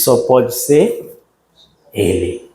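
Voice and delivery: low, slow and hushed; awed certainty. Retold or imitated. Peter at the tomb, hushed awe. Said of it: "Pedro diz".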